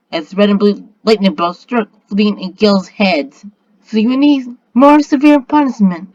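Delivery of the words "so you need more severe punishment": high, reproving tone; scolding. A narrator's reading. Spirit figure announces punishment to villains, high scolding. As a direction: scold them in a raised pitch. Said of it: "scolded Feline".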